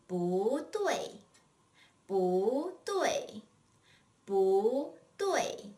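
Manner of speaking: 不对 said bú duì, rise then fall; tone drill. Shown as a demonstration. Teacher drilling not right: bú duì. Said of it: "How about not right or not correct".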